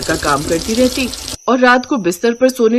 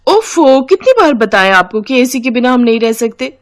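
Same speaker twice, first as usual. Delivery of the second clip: exasperated; 4 semitones higher than usual. Acted. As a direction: huff at having to explain it yet another time. Sister-in-law annoyed at repeated question. (झुंझलाई हुई आवाज़)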